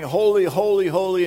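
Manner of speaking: loud calling of holy, holy; seraphim crying out. Retold or imitated. Preacher voices seraphim crying holy, loud. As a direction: ring it out like angels proclaiming. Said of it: "they're crying".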